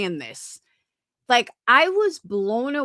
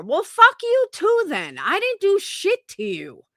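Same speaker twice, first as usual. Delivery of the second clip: angry; 8 semitones higher than usual. Real, not acted. Answering a hostile panelist.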